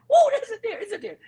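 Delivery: high excited whoa; mock excitement. Imitating a hunting buddy spotting a deer, high excited squeal. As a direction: squeal it like a thrilled hunter. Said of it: "they get all excited".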